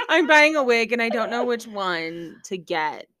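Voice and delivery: laughing quote. Retold or imitated. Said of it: "And he goes".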